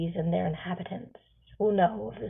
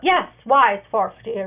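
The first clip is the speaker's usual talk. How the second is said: calling back; 2 semitones higher, 8 dB louder than usual. Acted. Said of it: "Red Clover answers".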